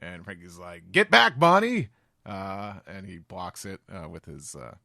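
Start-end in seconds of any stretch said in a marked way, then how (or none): 0.9-1.9 high shouted warning; hammed-up cry of get back; mock shout. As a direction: yell it to protect Bonnie. Frankie shouting quote.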